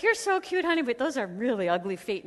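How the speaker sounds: put-on a fond dad teasing his little girl. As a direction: coo it like a doting father. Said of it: "And he's like".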